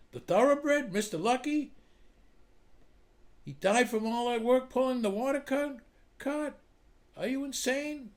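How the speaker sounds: outraged. Acted. Boss hears horse died.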